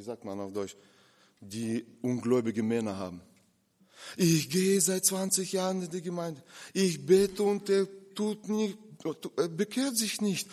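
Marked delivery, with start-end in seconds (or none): 4.2-10.5 disappointed churchgoing wife. Retold or imitated. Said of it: "habe ich mit Frauen gesprochen".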